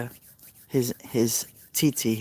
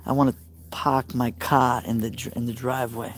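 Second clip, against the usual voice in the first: put-on mild Boston accent, dropped R in park and car. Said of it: "The Bostonian accent is".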